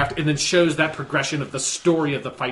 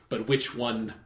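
gravitas; 2 semitones lower, 5 dB quieter than usual. Retold or imitated. Fan quoting Samuel Jackson's Jedi answering Yoda, understated gravitas. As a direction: lightly imitate a grave Jedi master. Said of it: "gives the right amount of gravitas".

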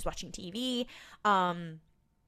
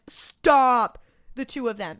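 exasperated yell; 4 semitones higher, 7 dB louder, slower than usual. Retold or imitated. Yelling at characters on screen.

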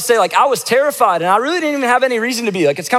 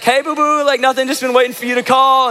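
higher, sugary, lightly voiced girlfriend; sweet girlfriend voice; 6 semitones higher than usual. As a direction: sweeten it up like she's been waiting. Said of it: "And she's like".

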